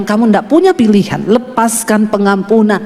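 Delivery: lightly voiced God, low and firm; God's voice, retold. God answering the protesting speaker, lightly voiced low command. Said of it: "Tuhan bilang".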